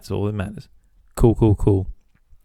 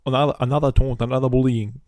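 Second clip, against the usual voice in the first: imitating his mum; 3 semitones higher than usual. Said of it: "his mum's like".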